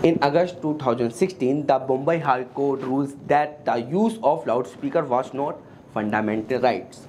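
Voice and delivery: very slow, word by word, reading out the ruling; measured courtroom-style recitation; slow deliberate reading. Acted. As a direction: spell the ruling out slowly so it sinks in. Quoting the court ruling in English.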